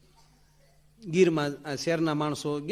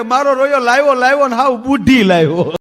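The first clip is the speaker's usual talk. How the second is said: put-on crying old woman; 9 semitones higher, 11 dB louder than usual. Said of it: "ડોશી રોતા રોતા બોલ્યા".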